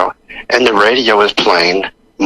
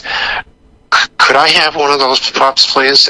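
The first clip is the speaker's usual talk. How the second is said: higher-pitched imitation of asking sweetly; retold plea, pitched up; pleading request; 4 semitones higher, slower than usual. Boss phones the brother for a pup, pleading.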